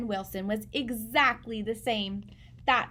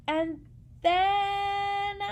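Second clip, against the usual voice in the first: dramatic pause; 10 semitones higher than usual. A narrator's reading. Dramatic turn before Lily.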